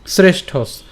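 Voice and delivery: "শ্রেষ্ঠস" joined up, ending on a clear s; said as one word. Shown as a demonstration. Teacher shows the joined word, said as one. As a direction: run both syllables of "শ্রেষ্ঠস" together. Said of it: "আমরা এটা একসাথে উচ্চারণ করব".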